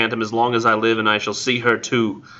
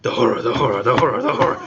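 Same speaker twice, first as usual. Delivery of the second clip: mock solemn; faster than usual. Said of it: "spoke slowly".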